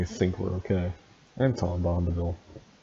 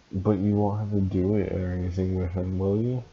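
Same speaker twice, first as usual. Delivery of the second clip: understated jealous question, lifting at the end; a touch of suspicion, tag question rising; mildly jealous. Acted. Narrator questioning a lover about someone else, mildly jealous. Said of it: "I asked jealously".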